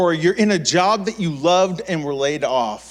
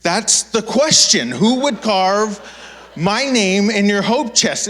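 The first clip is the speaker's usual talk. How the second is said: loud, slow, higher mock question; louder sarcastic jab; 4 semitones higher, 4 dB louder, slower than usual. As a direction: echo her back sarcastically. Mocking mom's question.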